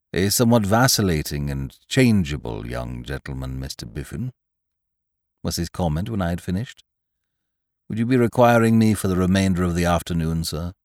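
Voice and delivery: deferential butler. Acted. Jeeves speaks.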